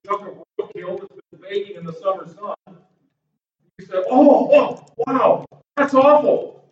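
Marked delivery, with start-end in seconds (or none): 4.1-6.6 drawn-out appalled reaction; mock disgust. Preacher acting out drivers passing baking roadkill, mock disgust. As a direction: groan at an awful stench.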